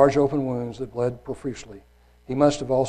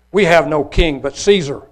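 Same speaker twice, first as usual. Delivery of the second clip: priests answering; 2 semitones higher, 8 dB louder than usual. Acted.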